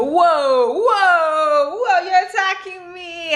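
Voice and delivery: high, loud laughing cries; squealed whoas tipping into laughter; playful alarm. Real, not acted. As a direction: cry out as an excited dog mobs you. Dog jumping all over her.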